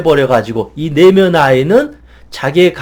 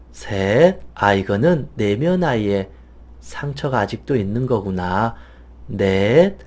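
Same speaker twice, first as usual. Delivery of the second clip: slow, soft meditation counting, fading lower; guided meditation count; 7 semitones lower, 8 dB quieter, slower than usual. Acted. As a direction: count them down gently, slower and quieter each number. (느리고 부드럽게 점점 잦아드는 명상 숫자 세기)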